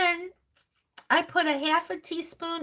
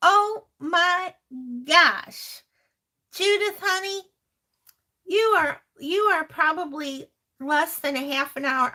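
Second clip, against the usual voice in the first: excited; 4 dB louder than usual. Real, not acted. Viewer lives nearby.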